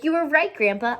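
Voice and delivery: bursting through the door to tell Grandpa; mild happy shout; excited shout. A narrator's reading. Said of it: "he shouted".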